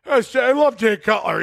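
imitating a slurring drunk fan; drunken slurring. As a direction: play the starstruck drunk buddy. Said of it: "slurring his words like a motherfucker".

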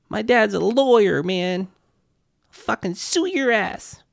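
high, slow entitled sneer; drunken posh sneer. Retold or imitated. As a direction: threaten like a spoiled rich kid. Rich kid voiced mocking.

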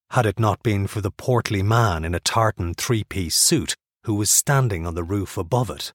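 plain reading voice

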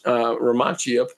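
ordinary delivery

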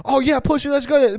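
a big guy bluffing while backing away, lightly voiced; mock bravado.

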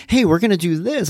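cheerful parent rallying his son; excited hype-up. Retold or imitated. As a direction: pump him up for the plan. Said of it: "I'll be like".

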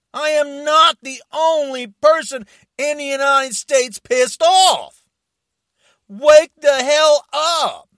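loud, furious call to wake up; angry yelling. Real, not acted. Furious man shouting at Trump supporters to wake up. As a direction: yell it at people who don't see it. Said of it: "because I'm mad".

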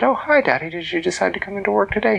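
a daughter greeting her dad; high excited girl voice, fast; cheerful girl. Acted.

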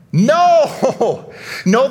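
forceful rejection; emphatic no. Real, not acted. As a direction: shoot down the quote outright. Rejecting theologian's quote.

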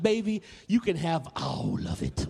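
mock-grand mother's pronouncement; hammed-up mom granting a feast; exaggerated indulgent mother. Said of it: "might not have said it like that".

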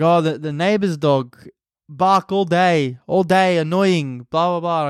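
imitating nonna's Italian-accented complaint; roughly attempted Italian accent, broken English; light Italian accent, words spaced out. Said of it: "Italian accent".

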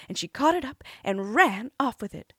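plain reading voice

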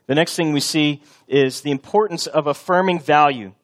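normal talking voice

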